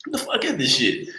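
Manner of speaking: high surprised squeal. Retold or imitated. After tasting agave, amazed high exclaim. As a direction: pitch jumps way up in shock. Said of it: "I was like".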